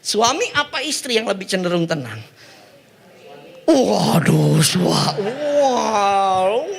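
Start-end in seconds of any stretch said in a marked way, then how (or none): 3.7-6.7 mock flustered husband. Pastor acts startled husband.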